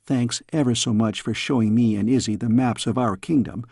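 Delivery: put-on a cheeky young princess; curious young girl. Girl questions her tutor.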